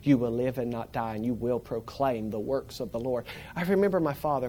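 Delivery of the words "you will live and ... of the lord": scripture recitation. Retold or imitated. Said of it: "quoting the scripture".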